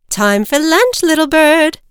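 loud, high sing-out call; mother calling out. Acted. Mother bird returns with a worm, calling out loudly. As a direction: call the little one to eat, high and loud. Mother calls chick to lunch.

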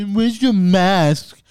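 very slow, drawn-out put-on voice; hammed-up imitation of a scold; mocking nag. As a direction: stretch every word in mockery. Mocking people who police masks.

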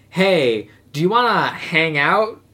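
slow, noncommittal invitation; casual douchebag. Acted. Guy vaguely asking a girl out, slow casual douchebag. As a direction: draw it out like a guy dodging the word date. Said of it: "he does the classic douchebag move".

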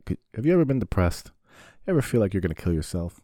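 mock ad pitch; hyped pitch. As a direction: sell it like an infomercial. Pitchman hype question.

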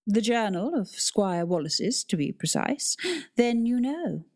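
precise, slow, correcting tone; clipped haughty librarian. Acted. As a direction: correct her with prim precision. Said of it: "responded in a clipped way".

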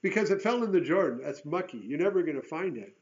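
loud, high, breezy brush-off; mock flippant borrower; careless excuse. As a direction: shrug off losing a borrowed axe. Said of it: "it would be real easy to say".

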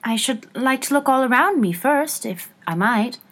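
lightly voiced gentle child; mild, tentative request. A narrator's reading. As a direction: ask gently and politely. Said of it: "Alice said very gently".

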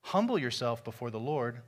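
scripture reading. Acted. Pastor reading James to the congregation, solemn and measured. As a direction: read it out with weight, letting the lines land. Reads the scripture passage aloud.

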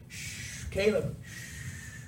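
soft, drawn-out shushing; quiet, whispered shush; hushing. Acted. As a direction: hush someone under your breath. Hushing the excited blind man.

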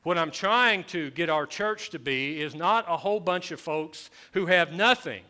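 high, loud, forceful pulpit voice; impassioned preaching. Real, not acted. Pastor urging his church to have something, impassioned preaching. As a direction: preach it loud and high, driving each phrase home.

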